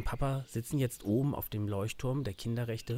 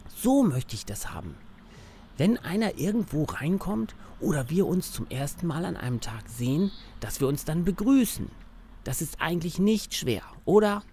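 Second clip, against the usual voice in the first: put-on eager little boy, a bit higher; cheerful young kid talking to his teddy; child voice; 4 semitones higher than usual. Max talks to his teddy.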